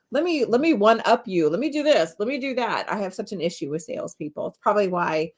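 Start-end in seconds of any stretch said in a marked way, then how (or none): 0.1-2.9 pushy salesperson. Retold or imitated. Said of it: "this whole".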